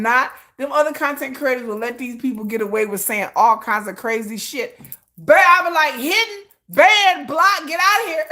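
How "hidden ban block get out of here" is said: high, brisk brush-off, each word a click; dismissive ban. Retold or imitated. Creator banning trolls in her comments, high brisk brush-off. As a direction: rattle them off like swatting flies.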